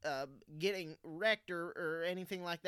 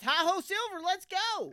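high, loud cowboy rallying cry; 11 semitones higher, 6 dB louder than usual. Pretend. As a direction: call it out like a rider spurring on. Rallying cry after Lone Ranger quote.

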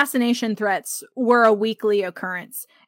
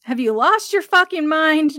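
sputtering Jack; 6 semitones higher, 4 dB louder than usual. A narrator's reading. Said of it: "Jack sputtered".

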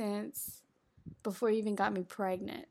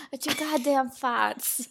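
movie line quote; 3 dB louder, slower than usual. Retold or imitated. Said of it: "that is a line in the movie".

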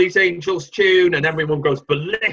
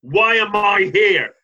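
mock diva; 4 semitones higher, 6 dB louder, slower than usual. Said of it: "just going".

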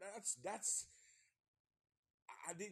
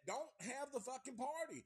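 much higher and louder, \"Don't have the fucking party\" yelled as a warning; exasperated shout; 11 semitones higher, 4 dB louder than usual. Acted. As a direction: bark the warning at the screen.

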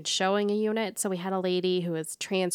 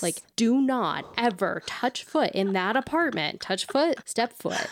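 stern scolding mom voice. Retold or imitated. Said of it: "my mom voice".

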